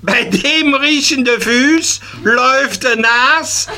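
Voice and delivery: high, indignant schoolboy voice; child protesting. Acted. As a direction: protest like a cheeky little boy. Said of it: "protestiert das Karlchen ganz feste".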